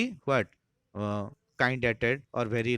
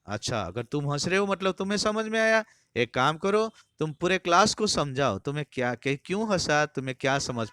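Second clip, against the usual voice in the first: higher and louder, commanding; stern order; 5 semitones higher, 4 dB louder than usual. Retold or imitated. Harris retold, ordering Taplow to explain, louder. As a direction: put the boy on the spot.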